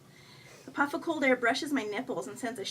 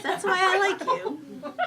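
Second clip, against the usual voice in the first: high, louder, drawn-out critter voice; delighted raccoon; 8 semitones higher, 6 dB louder, slower than usual. A narrator's reading. Laughing raccoon tells woman she likes her, delighted. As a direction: say it slowly and high with amusement.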